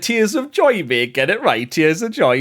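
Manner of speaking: high, bright mock protest; playful correction. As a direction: set them straight, laughing. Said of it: "And I was like".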